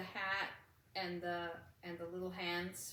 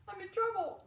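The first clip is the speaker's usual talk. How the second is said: laughing; 13 semitones higher, 5 dB louder than usual. Retold or imitated. Joking about fearing trouble.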